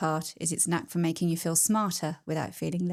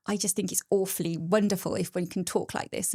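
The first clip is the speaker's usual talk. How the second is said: twenties posh voice. Pretend. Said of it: "the twenties posh voice you were doing".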